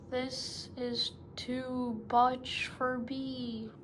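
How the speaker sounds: slow, lightly pinched nose voice; a touch of a stretched, nasal whine; elephant's child slipping, pleading through his nose. Acted. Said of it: "he said through his nose".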